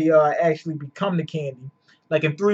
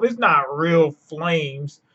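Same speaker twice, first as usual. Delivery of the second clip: slow, drawn-out mimicking of doubters; mimicked naysayers; much slower than usual. Quoting people who doubted Red Hawk, slow dismissive mimicry. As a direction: quote the naysayers, dragging it out. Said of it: "all the people that said".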